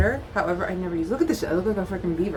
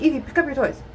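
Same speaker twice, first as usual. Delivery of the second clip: put-on calling out to child; 7 semitones higher, 5 dB louder, faster than usual. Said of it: "I could be like".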